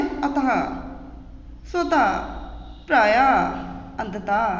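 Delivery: अतः, स्वतः, प्रायः each ending in an audible "ha"; visarga endings. Shown as a demonstration. Teacher listing visarga examples, each ending in a ha sound. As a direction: release a ha after अतः and अंततः, word by word. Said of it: "सब में हा की ध्वनि निकल रही".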